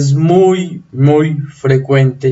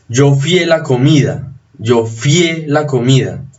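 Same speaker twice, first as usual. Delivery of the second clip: fié as one syllable, accent on the final é; stress on the E of fié. Shown as a demonstration. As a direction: land on the open vowel in "fié". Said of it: "el acento está en la abierta".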